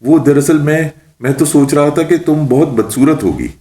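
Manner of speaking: nervously gulping. A narrator's reading. Mullah explains himself to the witch, mildly nervous. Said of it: "ملا جی تھوک نکلتے ہوئے بولے".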